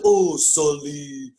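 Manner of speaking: slow, drawn-out mimicry of an actress; mocking annoying voice. Imitating the actress's character talking to Sully, mockingly drawn out. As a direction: put on an irritating, drawn-out coo. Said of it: "her voice is annoying".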